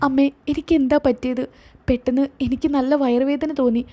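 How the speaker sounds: put-on worried young wife asking about her baby; hospitalised daughter frightened for her child; anxious daughter.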